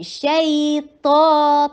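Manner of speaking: شیطا very slow, soft gliding ی; soft lin sound. Shown as a demonstration. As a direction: glide softly through شیطا. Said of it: "اس کو نرمی سے ادا کرتے ہیں". (شیطا میں لین نرمی سے)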